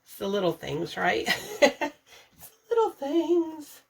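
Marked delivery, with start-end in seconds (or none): 2.4-3.8 higher, laughing through the phrase; tickled by her own saying; amused. Real, not acted. Vlogger repeating her favourite saying, amused and laughing.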